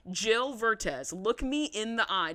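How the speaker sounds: mildly indignant, drawn-out emphatic rebuke; indignant scolding. Acted. Podcaster addressing the absent mother, indignant scolding. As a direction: tell her off, leaning on the words.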